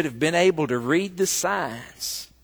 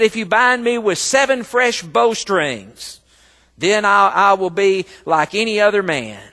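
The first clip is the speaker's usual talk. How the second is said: Samson's words boomed out, louder; booming Samson; 4 semitones higher, 6 dB louder than usual. Retold or imitated. Preacher voicing Samson to the church, loudly. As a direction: proclaim it like a strong man.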